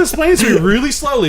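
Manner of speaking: mock-patronizing, elongated words. Repeats the mock slow explanation.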